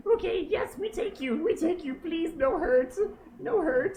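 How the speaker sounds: high squeaky pleading bird; tiny bird voice. Acted.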